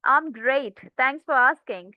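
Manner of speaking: bright, friendly "I'm great, thanks for asking" with an upward tone. Shown as a demonstration. Teacher demoing a friendly reply to a greeting, upbeat and cheerful. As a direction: answer like you're glad they asked. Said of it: "मैं उस सवाल का जवाब दे रही हूँ friendly way में".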